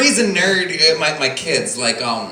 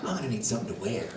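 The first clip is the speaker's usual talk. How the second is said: Joker; 9 semitones lower, 14 dB quieter, much faster than usual. Acted. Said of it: "and then goes".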